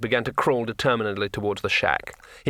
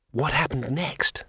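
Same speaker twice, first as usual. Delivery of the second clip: slow hushed eager question; breathless; 3 semitones higher, slower than usual. A narrator's reading. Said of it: "said Two Flower breathlessly".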